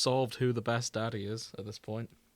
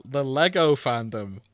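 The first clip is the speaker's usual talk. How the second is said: mock bewilderment; 4 semitones higher, 6 dB louder than usual.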